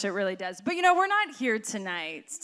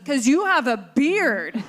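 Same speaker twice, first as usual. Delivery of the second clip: put-on laughing toddler quote; 4 dB louder, slower than usual. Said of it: "he goes".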